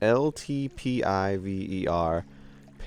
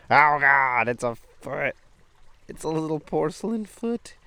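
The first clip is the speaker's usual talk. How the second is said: higher, louder shocked discovery; surprised; 6 semitones higher, 5 dB louder than usual. Real, not acted. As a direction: gasp at the creepy find. Finds a doll foot.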